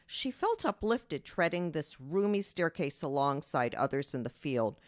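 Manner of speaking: steady reading of a novel excerpt; story narration. Acted. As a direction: read the passage to the audience. Author reads her excerpt.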